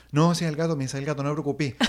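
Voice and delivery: insisting through a laugh; brushing it off with a laugh; laughing insistence. Retold or imitated.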